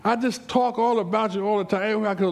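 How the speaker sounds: high, unbroken stream of chatter; gushing church lady. Acted. Church lady going on to the preacher, gushing. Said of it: "she's just going on".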